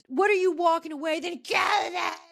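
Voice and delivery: high-pitched mock shouting; imitated drunken outburst. Drunken Heather calls after departing Meredith, mock shouting. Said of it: "drunken Heather".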